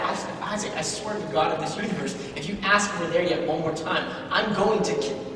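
mock threat from a worn-out dad; lightly acted, held-in exasperation; exasperated father. Father warning his nagging son, mildly exasperated.

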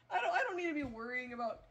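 fast laughing complaint. Real, not acted. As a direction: laugh through the rant. Laughing rant.

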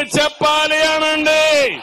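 rally call. Shown as a demonstration. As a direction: draw out the line as a command to the crowd. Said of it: "పిడికిలు బిగించి చెప్పండి".

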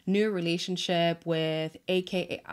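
"relationship" said with a slipping South African accent; South African lilt on "relationship". Real, not acted. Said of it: "why do I feel like a South African accent is coming out of me? The way I said relationship".

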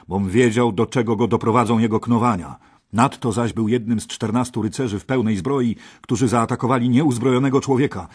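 lightly voiced knight defending his friend; knight's voice. A narrator's reading. Gawain voiced in story.

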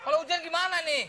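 mock angry promoter. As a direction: scold him over the rain, half in jest. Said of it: "jangan marah-marah".

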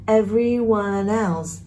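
"everyone else" run together as "everyone-nelse"; smoothly joined "everyone else"; linked words. Shown as a demonstration. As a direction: carry the n of "everyone" onto "else". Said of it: "đọc nối á".

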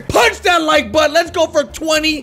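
loud, high-pitched urging; hyped call-out. Pretend. YouTuber asking new viewers for likes, hyped shout.

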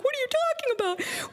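very high, exasperated mom voice; high-pitched imitation of a baffled mother; incredulous screech. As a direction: squeal it back in disbelief. Mother's incredulous reply to screamed news.

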